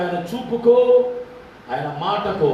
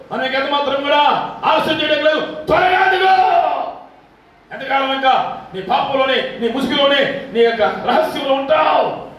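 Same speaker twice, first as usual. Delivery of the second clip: building from raised to high shout; urgent preaching; 5 semitones higher than usual. Real, not acted. Preacher urging the congregation to leave sin, building to a shout. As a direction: press them to repent now.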